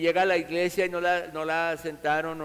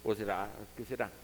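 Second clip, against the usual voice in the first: put-on soft, hushed child musing, voice dropping lower; child wondering; 6 semitones lower, 7 dB quieter than usual. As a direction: wonder aloud quietly like a small child. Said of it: "yo me acuerdo que decía".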